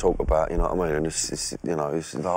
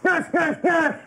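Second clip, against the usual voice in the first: full high-pitched shouted warning; shouting like he means it; much slower than usual. Pretend. Trainee repeats the gas drill for instructor, shouting. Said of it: "No, I mean it".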